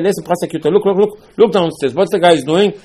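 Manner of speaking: loud, high, urgent summons; urgent calling out. Acted. God summoning the prosecuting angel to look downstairs, urgent and loud.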